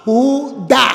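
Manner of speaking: "Judá" stressed on the final A, rising; stress on the last A. Shown as a demonstration. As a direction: land on the last syllable of "Judá". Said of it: "tiene acento en la A".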